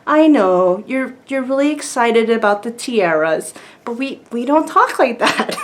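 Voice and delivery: put-on gentle correction in a light British accent; lightly voiced understanding British parent; sweet British parents. Mom and dad soothing their little girl, sweet British accent. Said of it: "oh, so sweet".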